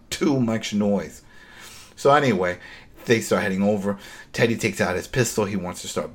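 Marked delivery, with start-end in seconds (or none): 0.1-1.2 slower, flatter repeat. Shown as a demonstration.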